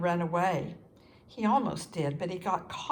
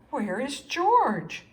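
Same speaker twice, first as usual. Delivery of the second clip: slow, louder call across the deck; 5 semitones higher, 6 dB louder, slower than usual. A narrator's reading. Sailors searching the water, calling loudly.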